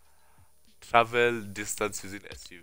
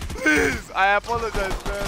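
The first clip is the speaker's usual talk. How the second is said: mock pleading; 10 semitones higher, 4 dB louder than usual. Real, not acted. Begging enemies.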